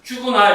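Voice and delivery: teacher shows Q read separately from P, read apart. Shown as a demonstration. Say "Q구나" as its own unit, lifted in pitch. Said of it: "이렇게 읽어야 돼".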